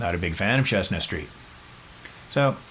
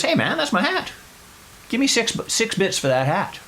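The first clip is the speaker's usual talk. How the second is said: indignant protest. Retold or imitated. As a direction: squeal in outrage over the crushed hat. Billy protests about his hat.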